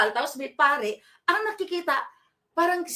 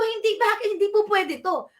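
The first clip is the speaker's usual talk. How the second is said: annoyed protest; 6 semitones higher than usual. Retold or imitated. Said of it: "naiinis daw ako".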